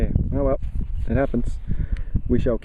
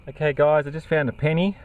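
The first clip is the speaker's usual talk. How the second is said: out of breath; 3 semitones higher than usual. Real, not acted. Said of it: "Sorry if I'm out of breath".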